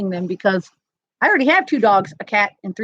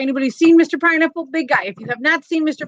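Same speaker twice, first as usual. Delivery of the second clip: louder, higher, quick call to the crowd; excited call-out; 4 semitones higher, 4 dB louder than usual. Real, not acted. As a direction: hype him up like a showman. Calling out to the audience.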